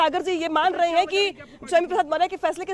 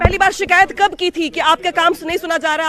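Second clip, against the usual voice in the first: raised-voice, forceful questioning; speaking loudly; 5 dB louder than usual. Real, not acted. Reporter pressing a resigning legislator about his complaint, speaking loudly. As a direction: put the question loudly over the crowd. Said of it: "आप इतना तेज बोल रहे हैं".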